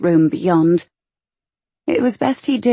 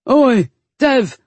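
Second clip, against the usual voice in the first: higher, growled shout for attention; growled call; 7 semitones higher, 4 dB louder than usual. A narrator's reading. A henchman calls Devil from the darkness, growling. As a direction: growl out a rough hail. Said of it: "the growl from the darkness".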